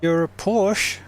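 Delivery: exasperated yell at another car; frustrated outburst. Real, not acted. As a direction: shout it in frustration. Driver yelling at rival car.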